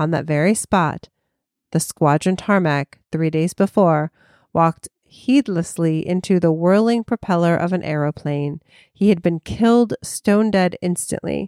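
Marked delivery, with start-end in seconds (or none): none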